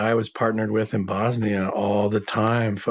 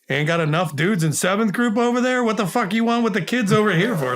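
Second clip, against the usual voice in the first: imitating a gruff officer's irritated reply; retold gruff retort; 10 semitones higher than usual. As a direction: bristle at the request like a grumpy officer. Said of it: "And he's like".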